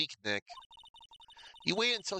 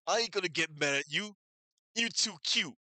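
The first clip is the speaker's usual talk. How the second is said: gruff mobster turned sweet; softened gangster; 4 semitones higher, 3 dB louder than usual. Acted. Mob boss charmed by a cute girl, cooing. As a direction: coo at her, still rough.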